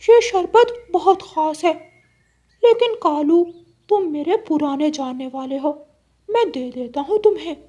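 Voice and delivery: high, bright-sounding parrot character; a lofty parrot doling out a favour. Acted. Parrot tells Kalu crow the sherbet is special.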